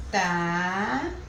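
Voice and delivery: "Tamanhinho" broken into drawn-out syllables with long pauses. Shown as a demonstration. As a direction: separate "Tamanhinho" slowly, waiting after each syllable. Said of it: "Então, vamos separar". ("Tamanhinho" separado em sílabas, com pausas longas)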